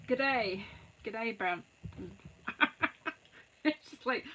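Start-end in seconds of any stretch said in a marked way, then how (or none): 0.1-0.6 weak mock Australian "G'day"; a half-hearted Australian "G'day", barely put on; pathetic Australian accent. Greeting viewer from Australia, in a feeble mock Australian accent. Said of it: "I have a pathetic accent". 1.0-1.6 a thin attempt at Australian "G'day, Brenton"; pathetic Australian accent. Greeting Brenton down under, in a feeble mock Australian accent. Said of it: "I have a pathetic accent".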